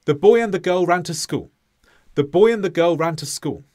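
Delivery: every syllable even, fast steady beat; syllable timed. Shown as a demonstration. Teacher replaying the syllable-timed example, even syllables. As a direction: rattle off each syllable with equal weight. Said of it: "this was like the first example".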